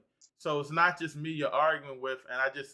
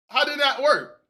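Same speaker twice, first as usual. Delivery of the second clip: incredulous; 10 semitones higher, 8 dB louder than usual. Real, not acted. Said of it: "challenging question".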